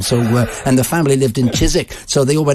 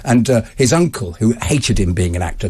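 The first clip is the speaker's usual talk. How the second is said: usual speaking voice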